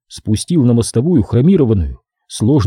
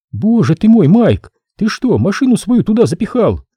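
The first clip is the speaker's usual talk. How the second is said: higher, brisk woman's voice; a businesslike woman explaining the job; woman worker; 9 semitones higher than usual. Acted. Sophie complains of weight.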